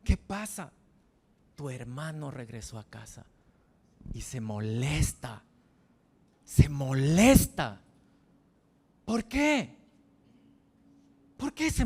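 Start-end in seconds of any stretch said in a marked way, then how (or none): 4.1-7.8 molesta dragged out, second louder; slow emphasis. Shown as a demonstration. Preacher stressing the older brother's anger, slowly and heavily. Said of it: "repeated for emphasis".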